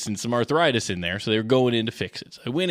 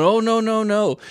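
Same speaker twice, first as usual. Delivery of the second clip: mock doctor tutting; 10 semitones higher, 4 dB louder than usual. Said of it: "shaking her head, going".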